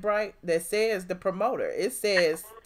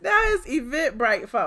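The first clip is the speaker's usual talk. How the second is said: louder, higher jeering repeat; mocking repeat; 4 semitones higher, 5 dB louder than usual. Host jeering at the ranting woman, louder and mocking. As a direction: hammer the jab home, louder.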